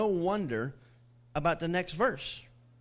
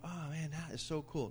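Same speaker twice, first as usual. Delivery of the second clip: 1 mock casual awe; 9 dB quieter than usual. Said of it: "we read that and we think".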